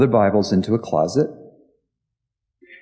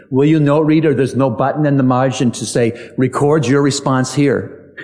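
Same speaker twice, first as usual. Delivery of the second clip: put-on Jewish accent; 4 semitones higher than usual. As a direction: quote him in a Jewish accent, savoring the punchline. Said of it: "he's got a Jewish accent".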